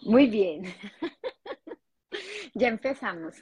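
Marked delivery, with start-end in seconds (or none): 0.0-1.8 laughing nervously through the words; giggly, nervous laugh. Real, not acted. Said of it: "de esa risa nerviosa".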